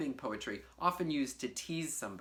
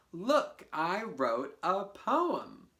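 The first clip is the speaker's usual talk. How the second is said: proud show; 2 semitones higher, 3 dB louder, much slower than usual. Shown as a demonstration. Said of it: "show it and say".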